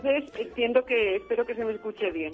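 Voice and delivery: muffled behind a mask; through a face mask. Real, not acted. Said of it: "hablando con la mascarilla".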